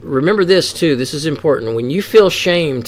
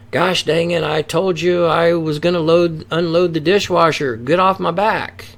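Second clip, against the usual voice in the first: higher-pitched exasperated snap at someone; mock fed-up outburst, pitched up; irritated snap; 5 semitones higher than usual. Partner nags about the dishwasher, so a higher mock irritated snap. Snapping back at a nagging partner.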